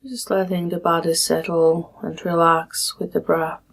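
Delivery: calm, measured meditation guide with long pauses; guided meditation. Acted. Meditation teacher leading listeners through a body scan, calm guiding voice. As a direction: guide them gently through settling, phrase by phrase.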